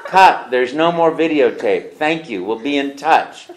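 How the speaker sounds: loud, slow director's call; director calling cut. Retold or imitated. Director calling cut on the endless audition. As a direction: call out to end the take. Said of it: "all of a sudden I heard".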